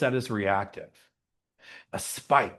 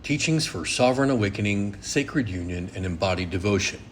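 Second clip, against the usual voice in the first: measured, low-pitched welcome read; formal scripted show opening; podcast intro; 5 semitones lower than usual. Acted. Host welcoming listeners to the temple podcast, measured intro read.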